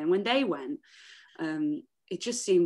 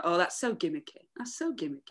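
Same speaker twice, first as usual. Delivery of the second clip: sniffy music snob; 2 semitones lower, 5 dB quieter than usual. Retold or imitated. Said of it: "You know, musical snobs".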